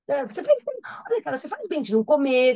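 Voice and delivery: high mocking sarcastic "faz bem". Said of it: "Isso aqui é ironia dele". (sarcasmo exagerado, bem agudo)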